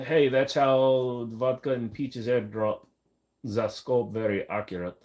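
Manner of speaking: put-on slightly slow, half-hearted Russian accent; bad Russian accent. Streamer joking about vodka airdrops, shaky attempt at Russian accent. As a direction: attempt a Russian accent, not quite landing it. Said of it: "I can't do Russian".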